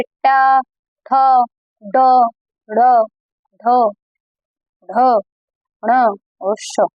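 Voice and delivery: ट, थ, ड, ढ़, ध, ढ़ spoken one by one with pauses, ending ण और श very slowly; careful letter-by-letter recitation; reciting letters slowly. Shown as a demonstration. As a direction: sound out each retroflex letter clearly for the class. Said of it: "अब ध्यान से देखिए".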